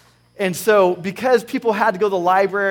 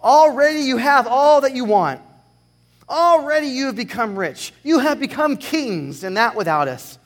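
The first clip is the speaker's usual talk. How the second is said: sarcastic; 4 semitones higher, 5 dB louder than usual. Acted. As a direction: read it with a sarcastic sneer. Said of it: "he's being very sarcastic here".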